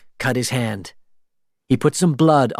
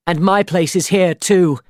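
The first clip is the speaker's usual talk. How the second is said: firm declaration; 7 semitones higher, 4 dB louder than usual. A narrator's reading. Elizabeth stands with Will.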